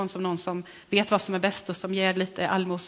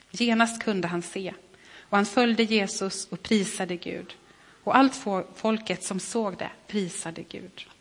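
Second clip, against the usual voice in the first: measured reading of a Bible passage; scripture reading. Acted. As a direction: read the gospel story aloud, steady and clear. Reads the gospel passage aloud.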